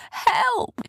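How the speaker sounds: high distant call; faint cry for help. Acted.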